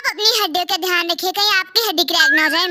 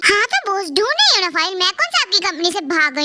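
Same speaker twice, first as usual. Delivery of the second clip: snappy "ढूंढ रही हूँ ना फाइल" with stress on रही; irritated retort. Acted. Secretary snapping back at her impatient boss about the file, irritated. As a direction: fire it back at the boss, annoyed.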